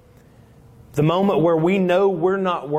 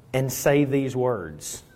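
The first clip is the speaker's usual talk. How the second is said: ordinary talk, nothing marked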